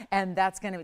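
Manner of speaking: a slight London accent slipping in; hint of a London accent. Real, not acted. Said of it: "did I just give it a little London accent?".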